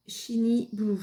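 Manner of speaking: English colour name in a French accent. Real, not acted. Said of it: "Vous excuserez pour mon anglais". (anglais à l'accent français)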